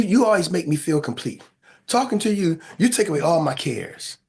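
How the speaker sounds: lightly voiced sweet-talker; a hint of playful romancing; sexy voice. Man saying he loves talking to you, lightly sexy voice. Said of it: "put my sexy voice on".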